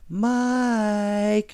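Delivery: put-on a mother calling her child's name, high. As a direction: call out across the yard. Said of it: "she called".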